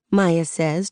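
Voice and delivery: ordinary delivery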